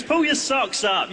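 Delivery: high, slow mum's nagging; a mother telling her child off. Acted. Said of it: "your mum tries to ruin it and goes".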